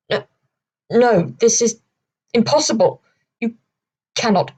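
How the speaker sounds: a touch of panic, stumbling over words; flustered protest. Acted. Patrick protests, struggling to feet.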